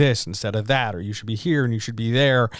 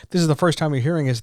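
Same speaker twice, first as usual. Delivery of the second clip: fast; 5 semitones higher, much faster than usual. Shown as a demonstration. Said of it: "we're gonna do the full intro".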